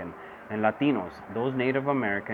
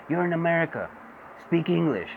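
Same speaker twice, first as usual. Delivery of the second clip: mock racist; 6 semitones higher than usual. Mocking racists telling him.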